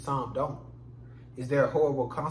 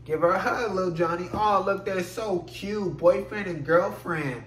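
cooing adult. Retold or imitated. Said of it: "to tell Lil Johnny that he".

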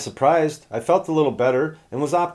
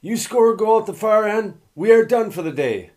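a self-admittedly bad French accent, pitched higher; 9 semitones higher, 3 dB louder than usual. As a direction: lightly mimic the coach's French-accented English, a bit louder. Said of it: "He said in his French accent".

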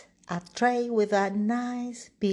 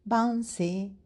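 put-on lightly raised, bouncy child voice; excited little boy. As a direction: play the wild little boy jumping about. Wilf the child bouncing about.

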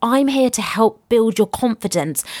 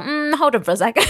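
hesitant inner thought; 5 semitones higher, faster than usual. Retold or imitated. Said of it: "But then I thought".

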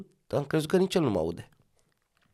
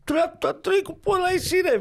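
co-driver calling out. Retold or imitated. Reenacts rally co-driver call.

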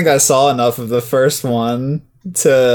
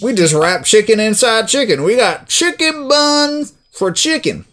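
ad pitch voice; 7 semitones higher than usual. Pretend. Fake KFC ad.

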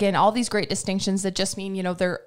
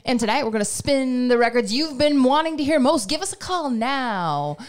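1950s DJ; slower than usual. Pretend. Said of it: "I just channeled my best nineteen fifties DJ".

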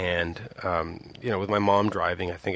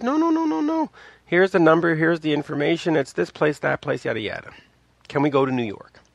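eager pleading, much higher and louder; insistent kid; 8 semitones higher, 4 dB louder than usual. Retold or imitated. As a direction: convince a doubting mom, rushing. Kid insisting to doubting mom.

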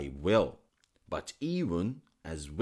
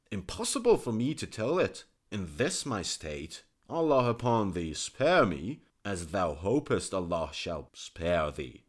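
loud, high urgent plea; pleading physician; 3 semitones higher, 7 dB louder than usual. Acted. Physician begging the king again, loud. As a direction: beg by Allah for mercy.

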